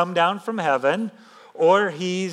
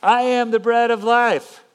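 higher and louder, proclaiming it; bold proclamation; 5 semitones higher, 4 dB louder than usual. Shown as a demonstration. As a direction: announce it with full conviction. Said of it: "No, this is phenomenal stuff".

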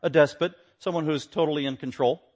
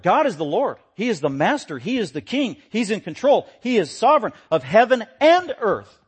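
punchy, rising declarations; emphatic preaching; 6 semitones higher, 7 dB louder than usual. Acted. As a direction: build each declaration in pitch and force. Preaches God's lordship with force.

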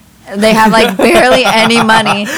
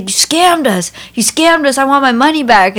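mock freaked-out victim; 5 semitones higher than usual. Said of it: "he's freaking out".

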